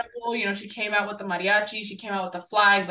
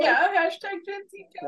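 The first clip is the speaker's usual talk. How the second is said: mock cowboy voice; 11 semitones higher than usual. Mock slogan echoing Emily.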